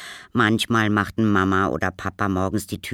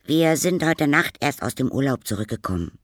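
high schoolboy voice; Paul; 7 semitones higher, 4 dB louder than usual. Acted. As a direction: chat to the neighbour as a boy. Boy answers old neighbour. (hohe Jungenstimme)

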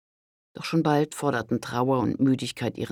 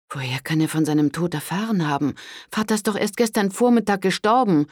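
higher, louder agitated question; upset cry; 6 semitones higher, 4 dB louder than usual. A narrator's reading. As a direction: call out in indignation. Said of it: "rief Pandolfina aufgebracht". (Pandolfina ruft aufgebracht)

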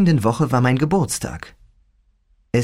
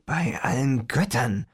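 low growl; 6 dB quieter than usual. Acted. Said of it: "knurrte ich".

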